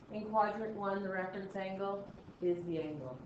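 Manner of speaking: measured and level, holding back inflection; slow, uninflected talk. Shown as a demonstration. Teacher walking class through reference angles, slow and uninflected. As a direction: keep every word slow and even. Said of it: "it actually hurts to talk like this".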